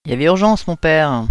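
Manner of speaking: sly, mischievous reply; girl answering the priest with mock innocence; with malice. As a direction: tease him with mock urgency. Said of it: "répondit-elle avec malice".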